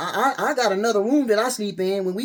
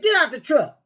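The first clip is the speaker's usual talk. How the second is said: retold order; 9 semitones higher, 3 dB louder than usual. Retold argument, ordering him out.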